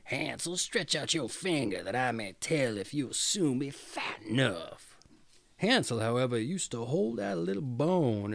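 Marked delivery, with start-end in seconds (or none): 0.1-5.0 lightly voiced witch calling out. Witch calling Hansel at the stable, mild call.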